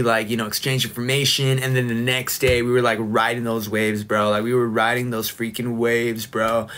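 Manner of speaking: laid-back California surfer talk; lightly voiced surfer dude from California; surfer bro. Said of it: "let me get into my surfer bro era".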